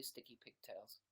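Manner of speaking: ordinary talk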